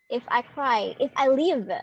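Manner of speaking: "if I cry, if I live" run closer together, leaning on CRY and LIVE; two light syllables, then a firm LIVE; anapest stress pattern. Shown as a demonstration. Teacher repeating the example for the class, stress on each last word. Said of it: "it will be sound like that".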